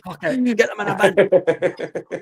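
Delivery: drawn-out, high, resigned; weary give-up. Retold or imitated. Policeman giving up on the fine, slow resigned sigh. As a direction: let it go like you've been beaten.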